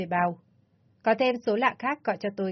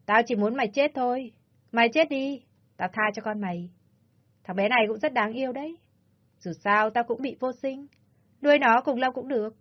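slightly raised, menacing villain voice; cold threat; 3 semitones higher than usual. Acted. Ly telling the mother to die for her son, menacing. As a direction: savour the threat.

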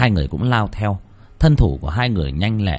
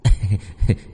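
goofy little "hề hề" laugh; embarrassed stuttering giggle; sheepish chuckle. A narrator's reading. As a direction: laugh it off awkwardly. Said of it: "cười hề hề".

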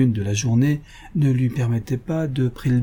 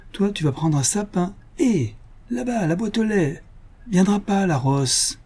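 higher, calling out across the street; hailing a cab; 8 semitones higher than usual. A narrator's reading. The cyclist calling to the cab driver, higher cheeky call.

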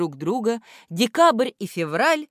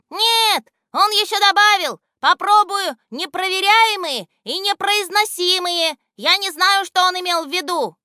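letter E; 14 semitones higher, 6 dB louder than usual. A narrator's reading. Letter E adds, voiced high.

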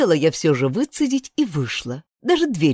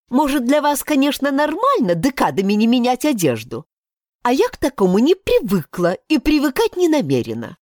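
put-on higher, insistent young woman; heroine's higher voice; 6 semitones higher than usual. Heroine insisting to the deputy, higher and firm. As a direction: press your right politely but firmly.

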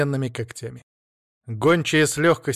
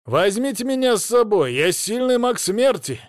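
high, raised calling voice; shouted plea; 8 semitones higher, 4 dB louder than usual. A narrator's reading. Hero begging the departing hunters to take him, shouting. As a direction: call out urgently over a distance. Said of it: "заорал я".

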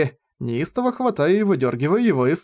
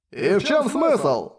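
mock disappointment; 6 semitones higher, slower than usual. A narrator's reading. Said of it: "с притворным разочарованием".

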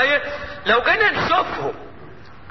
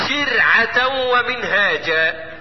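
Quran recitation; much slower than usual. Shown as a demonstration. Recites verse example.

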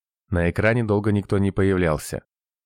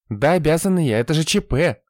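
put-on much higher, alarmed girl's voice; agitated insistence; 8 semitones higher, 3 dB louder than usual. A narrator's reading. Operator overrules Zikunov, agitated.

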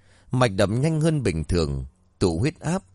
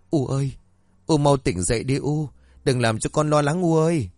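a touch of tearful pleading, rising higher; wailing; 4 semitones higher than usual. Acted. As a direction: shake her mother and beg her to wake, mildly tearful. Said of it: "gào khóc lay người của mẹ". (khóc gọi mẹ, giọng van nài nhẹ)

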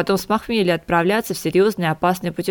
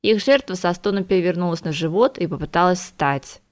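usual speaking voice

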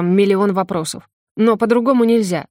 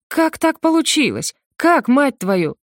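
high, slow furious yell; angry friend yelling, betrayed; 8 semitones higher, slower than usual. A narrator's reading. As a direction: shout it down the phone in disbelief. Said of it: "Орёт на меня".

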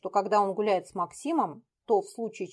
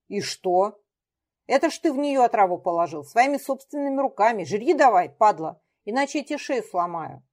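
threatening; 5 dB louder than usual. Acted. Дмитрий threatens Петя.

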